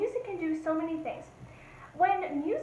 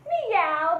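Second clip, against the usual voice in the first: cat meow; 2 semitones higher, 7 dB louder than usual. Shown as a demonstration. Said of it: "What do cats say?".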